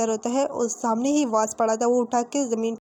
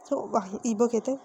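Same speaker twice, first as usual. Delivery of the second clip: ordinary delivery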